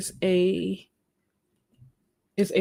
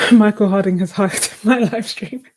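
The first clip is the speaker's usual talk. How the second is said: laughing; 6 dB louder than usual. Real, not acted. Jokes through laughter.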